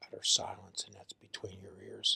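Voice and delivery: soft whisper, no voice. Real, not acted. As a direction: breathe it as a whisper. Whispered remark on inner conflict.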